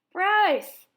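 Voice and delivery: loud high call of a name; shout. A narrator's reading. Old woman shouting at the boy, loud. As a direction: yell for the boy. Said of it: "shouted the woman".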